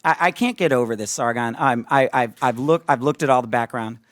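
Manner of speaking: a hushed, halting take on a reluctant questioner; playing Thomas. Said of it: "let me play Thomas for a second".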